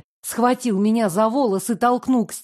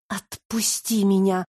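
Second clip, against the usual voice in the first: trembling voice. Acted. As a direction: beg with a shaking voice. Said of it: "попросила я дрожащим голосом".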